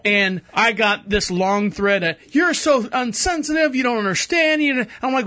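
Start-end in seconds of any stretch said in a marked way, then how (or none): 2.4-4.6 indignant commenter. Retold or imitated. Retelling an angry comment thread.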